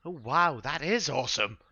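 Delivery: put-on high, loud echo of a wowed child; little voice. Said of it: "another little voice from Dax's shoulders".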